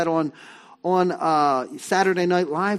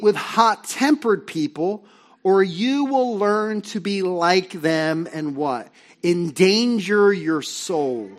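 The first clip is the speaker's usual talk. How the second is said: reading scripture together; 3 dB louder, slower than usual. Real, not acted. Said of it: "let's read this together".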